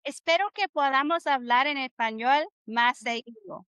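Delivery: "Espero que podamos hablar en español más seguido" in flowing, measured rhythm; teacher showing the phrase's rhythm; rhythmic demonstration. Shown as a demonstration. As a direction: model the rhythm of the Spanish phrase. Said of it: "Hear the rhythm of how I say this".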